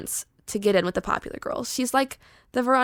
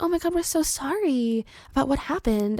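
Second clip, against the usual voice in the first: high, softer fake-sorry mean-girl imitation; mock sympathy; 4 semitones higher, 4 dB quieter than usual. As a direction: coo an apology that may not be meant. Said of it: "are they sorry or did they mean".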